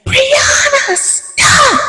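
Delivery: high crying shout of the name; hollered out. Retold or imitated. Mother hollering at Brianna to stop, crying shout. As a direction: scream it out, tearful and high. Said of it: "she just hollered out".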